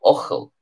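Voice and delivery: Ochel said with a throaty ch, OCH-el; careful teacher's Ochel; Irish pronunciation demo. Shown as a demonstration. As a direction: give the learners Ochel clearly. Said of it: "Ochel is the Irish for Youghal".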